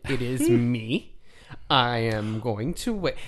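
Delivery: slow, deliberate mock promo; wrestling promo. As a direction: cut a pompous promo, slowly. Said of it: "This is me cutting a promo".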